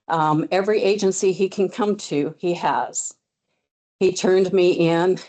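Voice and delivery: winded, panting between words; out of breath. Real, not acted. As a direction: speak while still catching your breath. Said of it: "sorry, I'm out of breath".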